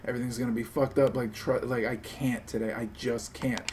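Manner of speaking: mock shaken plea that fades to a small voice; fake distressed excuse. Streamer demoing a sick-day call, mock distraught. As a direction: play the overwhelmed employee, trailing off. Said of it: "Be like".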